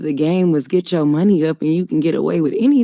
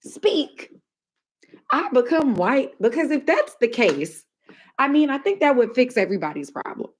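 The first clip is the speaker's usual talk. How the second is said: lightly put-on higher proper voice; mock white voice; 3 semitones higher than usual. Mocking people who say you talk white, in a higher proper voice. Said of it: "you just have to talk like this".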